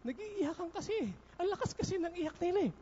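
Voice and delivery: put-on a light take on the young helper's reply; young person's voice. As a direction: answer shyly like a student. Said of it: "Sabi niya".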